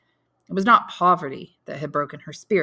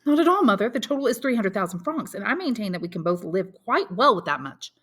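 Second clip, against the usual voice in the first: a hint of an eager son, louder start; lightly voiced young Albert; 5 semitones higher, 4 dB louder than usual. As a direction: son briskly taking stock.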